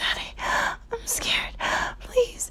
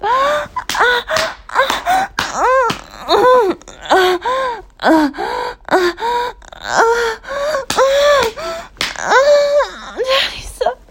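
much higher, louder crying gasps; sharp tearful whimpers; acted pained cries; 7 semitones higher, 7 dB louder, much slower than usual. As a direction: cry out in staged pain. Roleplayed pain cries.

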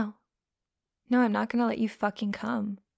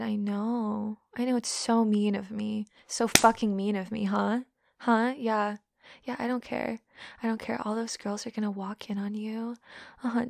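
usual speaking voice

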